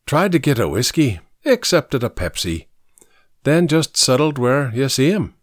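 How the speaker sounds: put-on light Irish accent; lightly voiced Irishman; a touch of Irish brogue. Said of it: "Patrick said in his Irish brogue".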